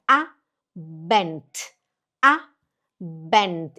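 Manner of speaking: slow "Abend" ending in a crisp t; drawn-out "A-bent", falling pitch; final D as T. Shown as a demonstration. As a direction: stress the "A" of "Abend", close on a t sound. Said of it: "E o D tem som de T".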